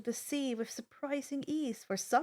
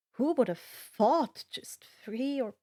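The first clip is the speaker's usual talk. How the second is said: whisper. Real, not acted. Whispered aside about subscribers.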